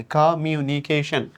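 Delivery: কমিউনিকেশন slowly, divided into its syllables. Shown as a demonstration. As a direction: spell out কমিউনিকেশন beat by beat. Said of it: "দেখছো syllable বাড়তেছে". (কমিউনিকেশন ধীরে, অক্ষর ভেঙে)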